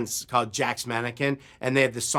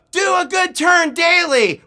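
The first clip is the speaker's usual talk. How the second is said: high, loud, slow scout chant; shouted chorus; 7 dB louder than usual. Retold or imitated. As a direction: chant it back like a troop. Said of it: "And a chorus of".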